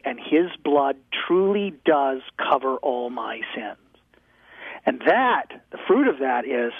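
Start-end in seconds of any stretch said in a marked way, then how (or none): 0.0-3.8 hushed. Real, not acted. Tender confession of faith.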